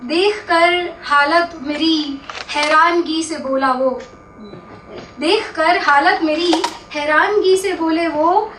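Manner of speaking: measured ghazal recital, line by line; mushaira-style verse reading; poetry recitation. Acted. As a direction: recite the couplet with lingering line endings.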